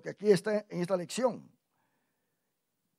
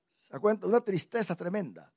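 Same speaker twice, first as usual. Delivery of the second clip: ordinary talk, nothing marked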